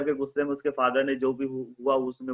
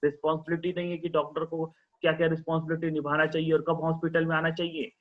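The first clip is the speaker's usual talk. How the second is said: angry father; 3 semitones higher than usual. Acted. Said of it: "उसका father गुस्से में बोल रहा था".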